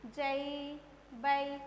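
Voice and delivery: जई, बई each held evenly, set apart; level drill-like जई, बई with ai glide; ai syllable demo. Shown as a demonstration. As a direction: sound out जई, then बई. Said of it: "इस तरीके से आपका उच्चारण करना है".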